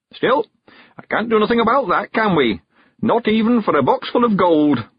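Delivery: put-on high old countryman voice; old man sending the girl on an errand, high and eager; Mister Weevil. A narrator's reading. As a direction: lift into a high, chatty old man's voice.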